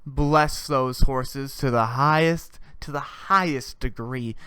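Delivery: hammed-up prayer that fades to a hush; mock holy prayer dying away to a hush. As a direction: pray it over-the-top, then fade to nearly nothing. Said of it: "I say".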